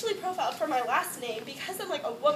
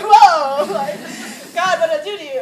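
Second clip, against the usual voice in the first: near tears; 2 semitones higher, 16 dB louder than usual. Real, not acted. Overwhelmed retelling finals-week ordeal.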